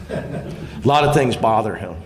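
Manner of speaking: amused, laughing aside. Real, not acted. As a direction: laugh it out fondly about his friend. Laughing about coach needing steam.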